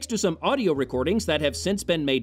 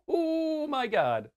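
laughing, stunned by the bad acting; a breathless laugh, then oh my God; laughing disbelief; 11 semitones higher, 4 dB quieter, much slower than usual. Real, not acted. Reacting to the Nazi officer's acting, laughing in disbelief.

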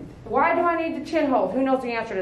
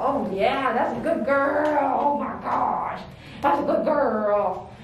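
slow, drawn-out doting praise; loving praise; much slower than usual. Real, not acted. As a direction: gush over a dog, stretching each word. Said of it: "Praise with love".

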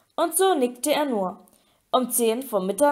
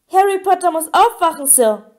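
Dobby; 6 semitones higher, 6 dB louder than usual. A narrator's reading. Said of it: "quiekte Dobby".

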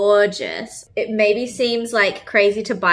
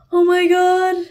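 surprised; 7 semitones higher, 4 dB louder, slower than usual. Real, not acted. Reacting to the gift.

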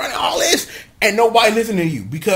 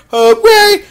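high, loud burst of celebration; sudden hammed-up hooray; mock cheer; 14 semitones higher, 10 dB louder than usual. Recapper cheering after Naga's pointless moping, mock cheer.

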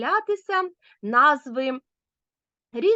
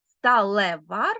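slow answer word; 3 semitones lower, 4 dB louder, slower than usual. Shown as a demonstration. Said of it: "А тепер перевіряємо".

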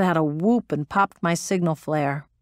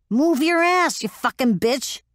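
furious shout; 8 semitones higher than usual. Acted. Metz screaming at the struggling pilot, furious shout. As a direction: scream to keep her moving. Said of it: "She was shouting at me".

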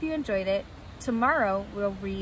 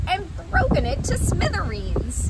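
loud, higher little bear voice; Baby Bear; 8 semitones higher, 8 dB louder than usual. Acted. Baby Bear finds his chair used, loud little bear voice. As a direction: cry out like an upset bear cub. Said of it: "said Baby Bear".

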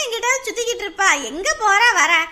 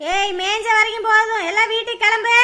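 loud call across the field; calling to the goats; 5 dB louder than usual. Acted. Goatherd calling her goats home, loud call. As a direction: call the herd home, louder.

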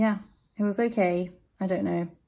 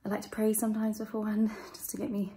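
out of breath; 3 dB quieter than usual. Real, not acted. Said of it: "Sorry, I'm out of breath".

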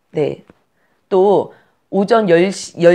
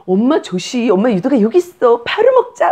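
put-on excited high baby-talk, rising to a peak; mother coaxing baby; 5 semitones higher, 3 dB louder than usual. Mother offering milk to a waking baby, high eager coaxing. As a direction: coo eagerly, leaping high at the end.

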